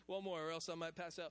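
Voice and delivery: winded after blowing up a balloon, laughing; breathless from blowing. Real, not acted. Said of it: "I'm gonna get lightheaded".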